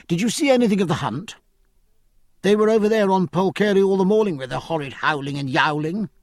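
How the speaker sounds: put-on high, quick, indignant girl; a spoiled young lady taking offence; Cecilia. Cecilia chatters.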